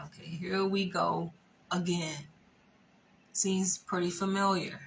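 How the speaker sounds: whispered to herself, unvoiced; muttered aside. Her private reaction to the boyfriend's pleading, whispered. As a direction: breathe it out, tired and knowing.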